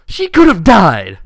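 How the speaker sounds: loud, slow furious cry; angry outburst. Acted. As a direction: hurl the words at him in rage. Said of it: "Twilight turns to you angrily".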